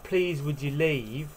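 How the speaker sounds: slow, polite request. Shown as a demonstration. Teacher showing how to ask someone to go, polite. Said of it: "like, polite ways of saying".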